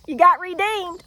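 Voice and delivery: high, laughing tease; amused teasing. Real, not acted. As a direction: say it through the tail of a giggle. Laughing as she teases Michigan.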